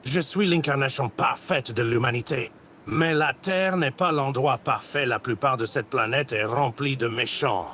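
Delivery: lightly put-on Goku Black voice; villain roleplay voice. Voice chat roleplayer playing Goku Black, lightly voiced villain. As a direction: grandiose villain speech, held steady. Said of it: "tu parles comme si t'avais un truc dans la gorge".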